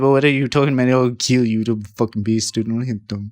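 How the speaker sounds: Zach impression. Mimicking a cartoonist for co-host, mock threat. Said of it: "he talks to me in the face like this".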